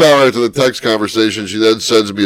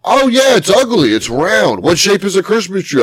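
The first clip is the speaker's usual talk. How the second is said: higher mocking imitation of the wife; 6 semitones higher than usual. Husband mimicking his wife's complaint about the tree, mocking high voice. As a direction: parrot her complaint in a raised mocking voice. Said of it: "I'm like".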